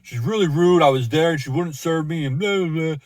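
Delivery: lightly voiced drunk complaint; whiny drunk complaint. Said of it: "he pretty much like".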